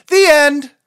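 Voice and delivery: triumphant ending. Acted. Chicken ends story triumphantly.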